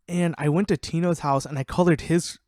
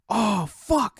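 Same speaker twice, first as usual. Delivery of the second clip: higher-pitched exasperated outburst; mock exasperation; 7 semitones higher, 4 dB louder than usual. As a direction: imitate a friend realising he's been had. Acting out friend's exasperated realisation.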